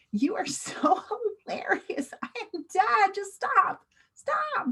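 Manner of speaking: high, giggly squeal; acted hilarity. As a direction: act like you're dying from laughter. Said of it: "I'm laughing really hard".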